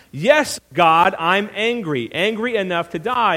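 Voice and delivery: angry, emphatic retort; Jonah. Acted. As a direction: snap back at God, indignant. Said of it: "Jonah's angry again".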